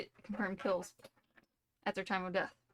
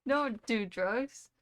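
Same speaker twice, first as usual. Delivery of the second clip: mock PSA; much slower than usual. Shown as a demonstration. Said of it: "That's been our P S A for today".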